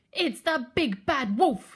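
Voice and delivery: high, loud cry of warning; alarmed cry. A narrator's reading. Percy recognises the wolf, loud alarmed cry. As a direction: cry out each word in alarm. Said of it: "he cried".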